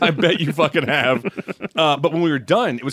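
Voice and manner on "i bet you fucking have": laughing through a teasing comeback; laughing retort. Retold or imitated. Laughing as he answers Jermaine's teasing greeting. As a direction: crack up while firing back.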